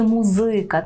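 "музика" with stress on ЗИ; stress on middle syllable. Shown as a demonstration. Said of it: "згідно з польським правилом".

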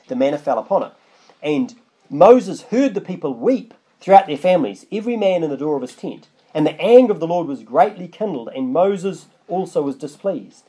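measured Bible reading; scripture reading. Acted. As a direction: read the verse out with weight. Reads scripture aloud.

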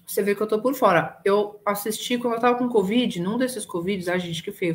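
talking while chewing farofa; mouth full. Real, not acted. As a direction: speak through a mouthful of food. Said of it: "falando de boca cheia".

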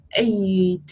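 eight as the vowel A plus an added end sound; eight with final consonant. Shown as a demonstration. Teacher contrasting A, age and eight, eight with its final sound. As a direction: finish eight on an audible t. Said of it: "thêm một âm cuối".

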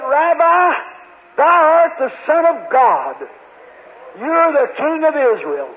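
preacher voicing Nathanael's astonished confession; awed exclamation. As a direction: proclaim it like a man overwhelmed. Nathanael confesses Jesus as Son.

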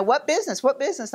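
mock impatient operator. Operator talking over her.

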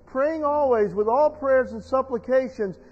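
slow, emphatic verse reading; weighty, stretched scripture delivery; scripture read aloud. Acted. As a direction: draw out the last words like a preacher.

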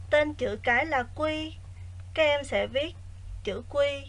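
quiet, even lesson reading; soft teacher voice. Acted. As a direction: read the exercise softly and evenly. Quiet recorded exercise reading.

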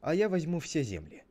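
storybook brother laying out terms; Cain making an offer. Acted. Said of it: "Тогда Каин говорит".

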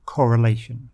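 "Correlation" with the stress on LA, corre-LA-tion; stress on penultimate. Shown as a demonstration. Teacher demonstrates where "Correlation" takes its stress. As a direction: say "Correlation" hitting the second to last syllable LA. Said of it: "is on the penultimate, the second to last syllable".

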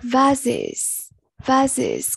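"Vases" in two clear syllables, ending in -iz; teacher's repeated "Vases", clear second syllable. Shown as a demonstration. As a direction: model "Vases" carefully, sounding out the added ending. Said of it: "câu A là either".

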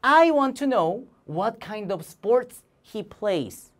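very slow, each word drawn out; slow model sentence for students; slow choral reading. Shown as a demonstration. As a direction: lead the class through it slowly. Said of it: "시작".

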